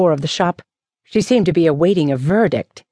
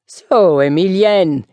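cheerful; 3 dB louder, slower than usual. A narrator's reading. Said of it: "he burst out cheerfully".

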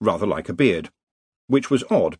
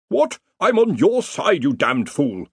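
much higher, outraged squawk; indignant Dean; 7 semitones higher than usual. A narrator's reading. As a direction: protest in disbelief at a teammate. Dean hit by an ally.

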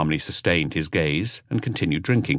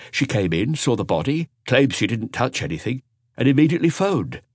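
lightly raised, earnest junior detective; a hint of an eager young inspector; 6 semitones higher than usual. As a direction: report the scene to your boss, a bit higher. Dupin reports to Maigret.

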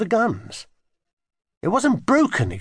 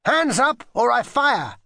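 slow, high playful threat; play-yell an order, drawn out; mock yell; 8 semitones higher, slower than usual. A narrator's reading. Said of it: "yelled William".

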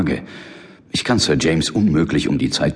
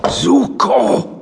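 sharp high call of a name; 5 dB louder than usual. Acted. John calling his sleeping partner Suko, loud call.

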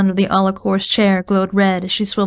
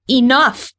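higher, ringing shout; heroine's defiant outcry; cried out; 5 semitones higher than usual. Acted. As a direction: cry it out to stop her. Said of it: "I cried".

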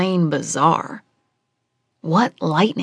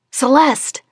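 hissed call; 8 semitones higher, 3 dB louder than usual. Acted. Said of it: "I hissed".

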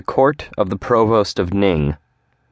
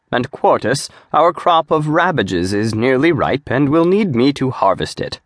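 higher, earnest demon voice; Zadim, pleading; 7 semitones higher than usual. Acted. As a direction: argue the case pitched up. Zadim continues his list.

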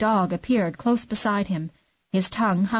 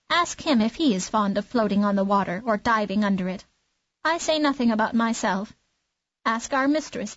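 fussy clucking hen. Acted. Hen mocks the duckling.

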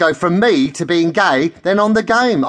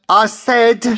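high, raised retort; insistent repeat; 7 semitones higher, 4 dB louder than usual. A narrator's reading. Angie repeating herself for a listener, high and insistent. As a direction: pipe up to make them hear. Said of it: "she repeats".

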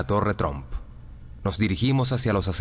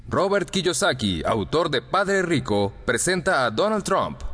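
higher, slow announcer's introduction; stage introduction; 5 semitones higher than usual. A narrator's reading. Introducing the guest to the audience, slow announcer style.

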